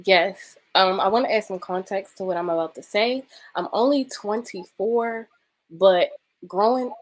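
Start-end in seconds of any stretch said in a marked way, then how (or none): 0.0-0.6 speech slurred by retainers; talking with retainers in. Real, not acted. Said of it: "excuse me if I talk funny. I have my retainers in right now". 0.7-3.2 faster retake with retainer in; wearing a retainer. Real, not acted. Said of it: "excuse me if I talk funny".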